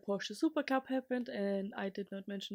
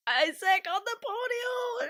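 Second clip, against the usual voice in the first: high, slow, shouted joy; squealing, overjoyed shout; excited cry; 12 semitones higher, 7 dB louder than usual. Real, not acted. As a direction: cry it out with pride. Joyful about rookie podium.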